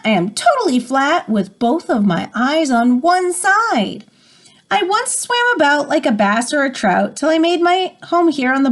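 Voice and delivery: lilting rhymed reading of a riddle; riddle poem read aloud. Acted. Teacher reading a riddle poem to the class, lilting.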